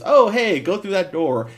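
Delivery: put-on high, loud older white guy. Older white guy directing Medea through a door, voiced loudly. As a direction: call out as a friendly older local. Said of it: "the older white guy goes".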